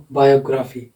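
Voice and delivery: "बायोग्राफी" said BA-yo-graa-fee, no stress on "यो"; common mistaken stress. Shown as a demonstration. Teacher shows how we usually read it, mistaken stress. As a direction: say "बायोग्राफी" evenly with a full "ग्राफी". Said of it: "हम क्या पढ़ते हैं इसको?".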